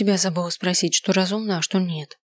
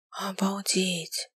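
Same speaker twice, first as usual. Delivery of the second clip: breathed out in a slow whisper; a stunned, relieved whisper; relieved whispered sigh; 7 dB quieter, much slower than usual. A narrator's reading. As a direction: exhale it with relief. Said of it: "вздыхает Диана с облегчением".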